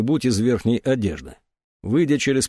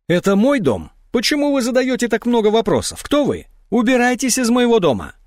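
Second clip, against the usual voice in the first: much higher, louder shrieking; hysterical outburst; 11 semitones higher, 4 dB louder than usual. A narrator's reading. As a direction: drive them out of the house. Woman turns on questioners.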